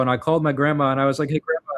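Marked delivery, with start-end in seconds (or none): 1.3-1.7 cheery phone greeting. Retold or imitated. Calling grandma on the phone.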